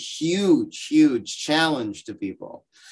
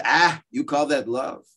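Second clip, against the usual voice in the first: a hint of a one-upping Jewish mother, rising higher; rival Yiddish mama; 4 semitones higher than usual. Second mother outbragging the first about her son. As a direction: top the other mother, slowing for the punchline. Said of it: "The other one says".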